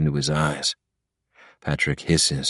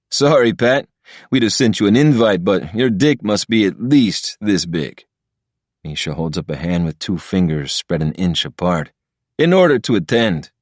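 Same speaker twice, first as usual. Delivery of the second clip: lightly voiced cocky friend, teasing; mocking Misha; 2 semitones higher than usual. Misha taunting Patrick about the invite, lightly voiced mockery. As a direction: needle him with a smug, slowed punchline.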